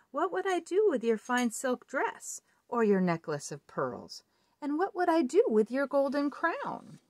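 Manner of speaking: high, mocking frog voice; scornful frog. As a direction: wave off the gifts as a frog.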